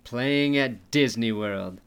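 upbeat sponsor ad read. Acted. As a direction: read it like a radio spot. Reads sponsor ad copy.

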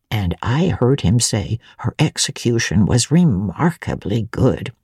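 put-on a chatty old housekeeper recalling the evening; elderly housekeeper.

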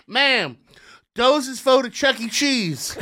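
ticket clerk voice. Retold or imitated. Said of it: "she goes".

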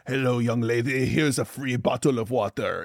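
a lightly voiced creepy festival vendor; creepy French vendor. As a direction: slip into a hint of an oily stranger greeting. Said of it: "a French grilled cheese maker looks at you and says".

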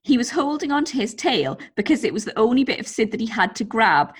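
lively, measured story narration; story read-aloud. A narrator's reading. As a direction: read the anecdote out to entertain. Reads out a listener's story.

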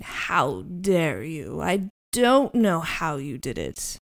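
very slow, restrained outrage; angry man. Acted. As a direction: draw the words out in understated anger. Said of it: "this angry sound".

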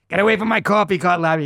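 high, loud playful shout; mock shout. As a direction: pretend to chase him off. Shouted retort in retold scene.

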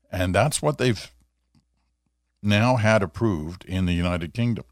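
talking through hiccups; hiccup-broken sentence. Real, not acted. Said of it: "Excuse me, I got the hiccups".

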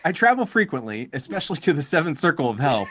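mock announcer read breaking into a laugh; cheesy dating-ad voice, laughing; podcast voice. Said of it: "podcast voice".

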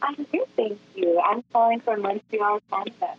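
faint, far from the phone; too far from the mic; barely audible. Real, not acted. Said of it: "I can barely hear you".

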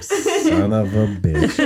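slow, drawn-out cursing through a laugh; mock exasperated curse. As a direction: stretch out the retold curse. Retold reaction to being exposed.

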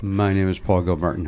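low, mock radio-host read; Paul Gilmartin. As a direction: send up a sleepy host's read, pitched low. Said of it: "make fun of his read again".

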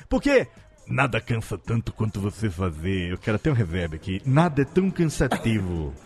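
low, rasping Lula voice; Lula impression. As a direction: rip the throat for Lula. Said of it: "ficar rasgando a garganta pra fazer a voz de Lula".

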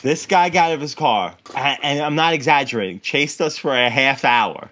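ordinary talk

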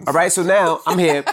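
chuckling through the words; slowed by laughter; laughing while telling. Real, not acted.

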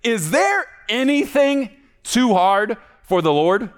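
high, slow, booming divine voice; God asking, amazed anyone would doubt. Acted. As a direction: draw it out as God, incredulous. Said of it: "I'm gonna read it the way I think he said it".

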